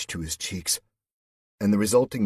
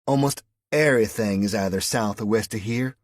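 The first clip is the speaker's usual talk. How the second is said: put-on louder, raised-pitch Southern US accent; 4 semitones higher, 7 dB louder than usual. A narrator's reading. West Virginian woman explains to the Englishman in a Southern accent. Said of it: "Your accent".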